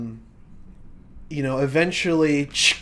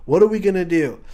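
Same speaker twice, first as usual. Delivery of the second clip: panicked executive; 3 semitones higher than usual. Acted. Executive panicking over falling sales.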